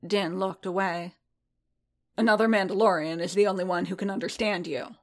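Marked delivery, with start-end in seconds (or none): 2.2-5.0 pressing. Acted. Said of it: "Boba pressed".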